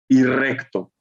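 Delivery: reading Deuteronomy aloud to the class; solemn scripture reading. Shown as a demonstration. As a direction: proclaim the verse slowly, reverently. Reads Deuteronomy 32:4.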